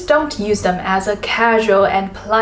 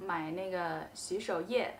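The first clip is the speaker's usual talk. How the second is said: much softer, easy 那个 fillers; 轻声自然地用那个; relaxed filler demo; 16 dB quieter than usual. Shown as a demonstration. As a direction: drop 那个 in casually while thinking. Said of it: "you can say 那个".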